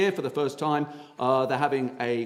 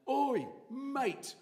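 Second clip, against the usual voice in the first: mock shout; 12 semitones higher, 9 dB quieter than usual. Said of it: "and he went".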